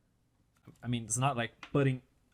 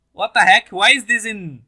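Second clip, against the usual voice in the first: loud, laughing what the heck; real surprised burst; 5 semitones higher, 13 dB louder than usual. Real, not acted. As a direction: caught off guard, amused. Reacting to Italian titles.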